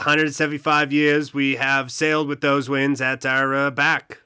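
half-Boston, half-Texas accent put on for the speech; slipping Boston accent; wobbly Boston accent. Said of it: "try it in a Boston accent".

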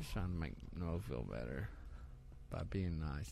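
hushed, low and soft; quiet. Real, not acted. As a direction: say it under your breath. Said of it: "I can't even hear you".

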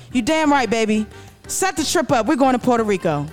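fired up and eager to go; excited Dorcel. Acted. Husband Dorcel to Dorothy about the trip, thrilled. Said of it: "He was excited".

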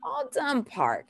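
put-on soft-edged singsong toddler cue; changed-up inflection. Shown as a demonstration. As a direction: lift the inflection, then let it fall. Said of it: "Change the voice inflection up a little bit".

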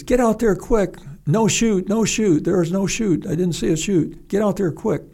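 high, urgent yelling, half-acted; retold radio scream. Controller screaming on the radio for a rescue, high urgent yell. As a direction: relay the controller's panicked shouts. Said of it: "he starts screaming on the radio".

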